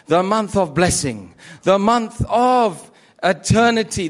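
rhythmic, building sermon on the holy month; preaching. Acted. Preacher to the congregation, building with fervor. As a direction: hammer each "the month of" like a litany.

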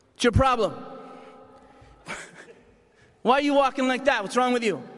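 mock the kid's limp like a tough mom; a hammed-up scolding Irish mum; blunt Irish mom. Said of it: "all this Irish love in her heart".

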